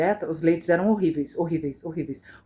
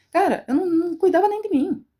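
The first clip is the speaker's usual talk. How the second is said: higher, louder voice cracking into a real cry; breaking into tears; 11 semitones higher, 4 dB louder than usual. Real, not acted. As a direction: let the voice break as you admit it. Confessing her own neglect. (mãe desabafando com os seguidores, chorando de verdade)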